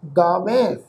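ਗਾਵੈ with a slight tone and nasal ending; ਗਾਵੈ ਹਲਕੀ tone ਨਾਲ; light tone. Shown as a demonstration. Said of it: "ਹਲਕੀ ਜਿਹੀ tone 'ਚ ਉਚਾਰਨ ਹੋਏਗਾ".

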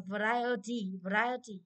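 "variety" stressed on the RI; "variety" with the weight on RI; stress on second syllable. Shown as a demonstration. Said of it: "trọng âm hai luôn đấy".

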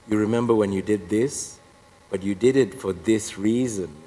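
gently recounting faults without judgement; a little low, kindly and unaccusing; nice, charitable. Retold or imitated. Heavenly woman recalling his sins to him, nicely and charitably. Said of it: "she said it so nicely and charitably".

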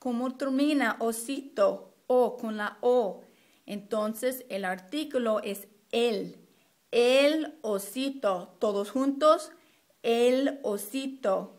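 lightly acted teacher leading the class; modeling teacher. Shown as a demonstration. Teacher prompts class on the article for osito, lightly acted classroom modeling. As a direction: model it clearly for pupils to repeat. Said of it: "you would say something like".

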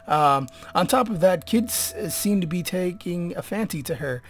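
loud mock announcer; hammed-up reader. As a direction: read it out grandly. Continues reading document aloud.

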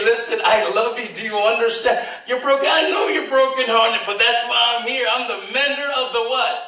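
God comforting. Retold or imitated. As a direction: speak as a loving Father lifting a broken child.

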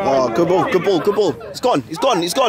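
excited cheering. Real, not acted.

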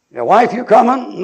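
loud, high holler to a dawdling wife; impatient husband. Acted. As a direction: yell for her to hurry up. Impatient husband calling his wife.

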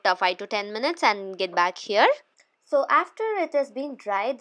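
lips barely moving; through a stiff face mask. Real, not acted. Seen 1: white clay mask covers whole face, lips stiff, all frames.

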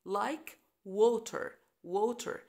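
water with a clear rounded W; W sound. Shown as a demonstration. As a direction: say water starting with rounded lips. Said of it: "هنطق ال W".

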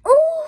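high, loud "ooh"; sudden high-pitched "ooh!"; excited ooh. Real, not acted. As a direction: let out a high whoop of surprise. Excited reaction to a card pull.

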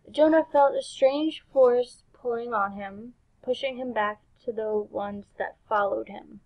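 measured rhyming storybook read; story narration. Acted. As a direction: narrate the verse line by line. Reads game's rhyming story.

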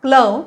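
क्लोव्ह said as one English syllable, klohv; English pronunciation. Shown as a demonstration. Teacher modelling the English word for Marathi learners, clear pronunciation. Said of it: "उच्चार करायचा आहे क्लोव्ह".

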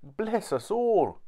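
high, slow astonished exclamation; gasped-out amazement, drawn out and high; startled mother. A narrator's reading. Startled mother at jumping pudding.

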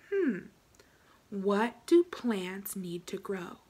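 slow whispered ponder; slow, breathy thinking whisper. Acted. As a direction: whisper it slowly like a secret. Teacher whispers a thinking question.

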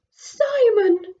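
put-on loud high call to her baby; mummy dragon calling. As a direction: call out like a relieved mother. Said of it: "said the mummy dragon".

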